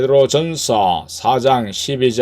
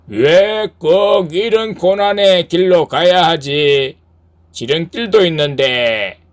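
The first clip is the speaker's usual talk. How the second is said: lightly voiced devil, slightly raised complaint; tempting devil; 5 semitones higher, 4 dB louder than usual. Devil needles the rower about hardship, lightly voiced tempter. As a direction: question the hard road, coaxing. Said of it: "그 마귀는".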